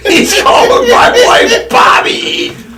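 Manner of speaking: half shouted through laughter, high; laughing. Real, not acted. Telling the story of his stoned friend, laughing hard. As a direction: crack up while saying it.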